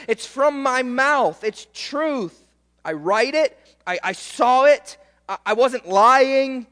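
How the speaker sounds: emphatic imitation of a witness swearing it's so; John's insistent testimony. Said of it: "here's John saying".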